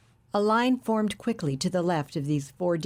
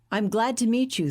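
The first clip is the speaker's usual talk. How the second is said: put-on a light Russian accent, higher pitch; thick Russian accent; 5 semitones higher than usual. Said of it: "said Korev in a thick Russian accent".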